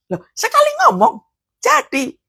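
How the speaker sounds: high-pitched wonder, loh; amazed. Real, not acted. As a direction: marvel that one word made it so. Amazed at creation by word.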